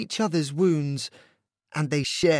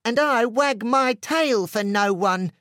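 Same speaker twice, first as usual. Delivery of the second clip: high, louder little dog voice; barked like Pooch; 6 semitones higher, 3 dB louder than usual. A narrator's reading. Small dog Pooch to his friend, high bark. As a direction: yap it out like an eager small dog. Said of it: "barked Pooch".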